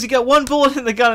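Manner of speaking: high put-on voice of the guy with the gun. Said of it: "he goes".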